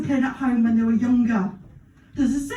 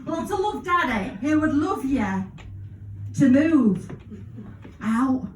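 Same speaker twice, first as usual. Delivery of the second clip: mock kids' TV presenter; slower than usual. Reads mock kids' TV birthday message.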